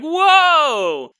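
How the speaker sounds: high, loud wide-eyed whoa; amazed whoa. Retold or imitated. Fairgoers marveling at the exposition, loud amazed whoa. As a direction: gasp at the sights in wonder. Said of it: "they're like".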